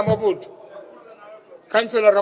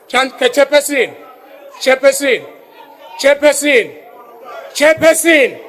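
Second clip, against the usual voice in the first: calm turning angry; 3 semitones higher than usual. Real, not acted. Repeatedly calling the chair, rising.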